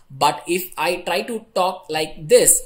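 slow, even robot voice. Shown as a demonstration. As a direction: speak like a stiff robot. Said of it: "I just spoke like a robot".

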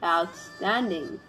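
slow, drawn-out sarcastic praise. Real, not acted. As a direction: say it dripping with sarcasm. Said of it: "This was sarcasm".

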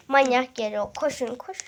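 loud alarmed warning. Real, not acted. Boy warning his viewers the brother is coming, loud. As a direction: warn them he's coming.

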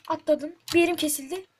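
snapping at the game; real irritation; annoyed outburst. Real, not acted.

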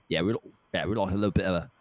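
lightly imitated British friend; a touch of British accent, understated; casual mock-British admission. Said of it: "some of my, my British".

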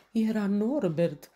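out of breath, each word slow and gasped; the hedgehog gasping after the chase; panting. A narrator's reading. Hedgehog witness gasping for breath, panting. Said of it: "gâfâi el".

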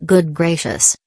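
said through a yawn. Real, not acted. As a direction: yawn while saying it. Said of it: "sorry if I yawn".

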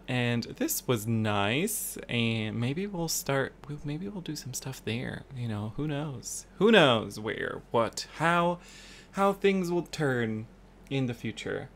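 talking into a mug, muffled. Real, not acted. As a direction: speak with the mug at your lips. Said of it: "Sorry, I'm just talking into my mug now".

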